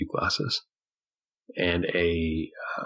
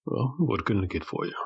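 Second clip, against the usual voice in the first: higher-pitched bartender taking an order; barkeeper voice; 5 semitones higher than usual. Acted. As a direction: play the obliging barkeep.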